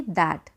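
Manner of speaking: That said low and falling as the answer; answer word. Shown as a demonstration. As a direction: drop into That with a firm fall. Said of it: "तो हम क्या लगाएंगे".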